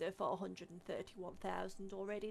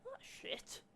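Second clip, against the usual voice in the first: whispered; 6 dB quieter than usual. Real, not acted. Reacts to ringtone news.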